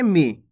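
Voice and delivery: मी, the vowel kept brief; a quick, short-voweled मी. Shown as a demonstration. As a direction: say मी with a short i, not drawn out. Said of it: "खींच के नहीं करना दोस्तों".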